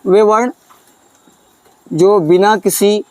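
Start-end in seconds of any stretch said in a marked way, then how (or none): 1.9-3.0 slow dictation, long pauses between words; slow dictating teacher; dictation pace. Shown as a demonstration. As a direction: spell it out slowly for students to write. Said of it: "तो लिखिए".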